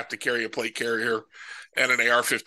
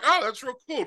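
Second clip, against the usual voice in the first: mock cool; 11 semitones higher than usual. Acting out confronting trash talker.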